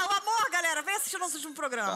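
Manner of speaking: hammed-up network announcer calling viewers; mock TV host. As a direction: hawk the show like a desperate presenter. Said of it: "Rede T V já falida".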